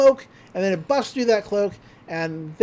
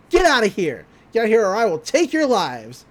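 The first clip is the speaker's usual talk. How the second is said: mildly raised retold command; commanding threat; 3 dB louder than usual. Satsuki ordering the crowd away, mock commanding threat. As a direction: act out a firm warning to clear off.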